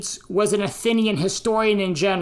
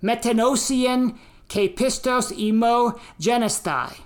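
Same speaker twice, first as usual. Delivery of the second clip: American-accented Greek; 3 semitones higher than usual. Shown as a demonstration. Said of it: "my American English Greek accent".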